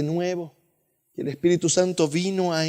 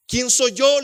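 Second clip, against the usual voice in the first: emphatic question; 6 semitones higher, 3 dB louder, slower than usual. Acted. Peter's humble rhetorical question.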